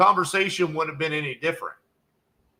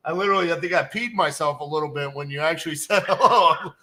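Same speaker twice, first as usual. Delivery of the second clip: laughing; 4 semitones higher than usual. Real, not acted. Laughing at surprise answer.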